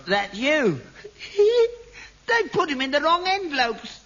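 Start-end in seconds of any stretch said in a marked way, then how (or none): 1.0-1.8 sudden shrieking laugh, high; a delighted high-pitched squeal of laughter; gleeful high cackle. Real, not acted. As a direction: cackle with glee at the mix-up. Father laughs at son's letter.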